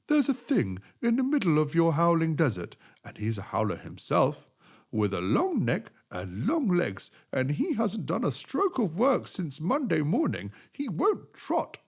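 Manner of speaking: high, slowing complaint at the end; complaining horse. Acted. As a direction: tattle on the camel, indignant.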